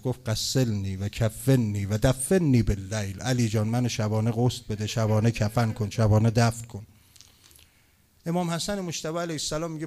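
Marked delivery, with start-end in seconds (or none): 0.3-6.9 loud, low lamenting recitation; raised preacher's voice, slow on the Arabic; impassioned preaching. Retold or imitated. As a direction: preach it forcefully, driving each plea home.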